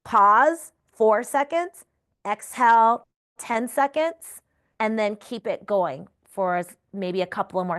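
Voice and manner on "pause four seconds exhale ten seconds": counting cues. Shown as a demonstration. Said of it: "I just keep lapping it".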